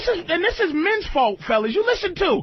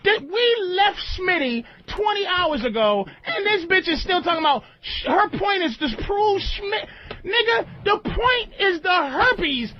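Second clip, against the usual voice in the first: emotional rant; 4 semitones higher than usual. Real, not acted. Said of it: "He sounds emotional".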